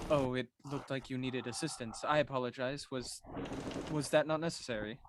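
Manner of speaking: soft, understated politeness; deadpan, quiet apology in character; dry delivery. Acted. Druid apologizing to a sailor after helping, dry delivery. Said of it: "His delivery is so dry".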